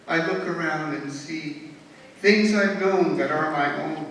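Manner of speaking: measured poem reading, falling at line ends; poem recitation. Acted. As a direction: recite in even, rhyming phrases with pauses. Reads own poem aloud.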